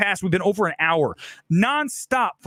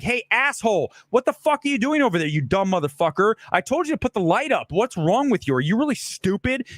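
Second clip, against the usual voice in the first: higher, mock-angry berating of a crew member; aggressive berating; 3 semitones higher than usual. Shown as a demonstration. Director demonstrating abusive yelling at the lighting guy, mock-angry. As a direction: tear into him like a bully on set. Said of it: "Being aggressive is like".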